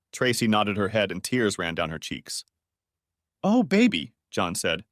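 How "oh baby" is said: high, pained cry; dismayed. A narrator's reading. Father dismayed at his daughter's confession, pained.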